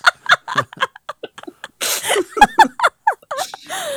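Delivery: loud, high-pitched burst of laughter; long laugh. Real, not acted. Laughs at own fat joke.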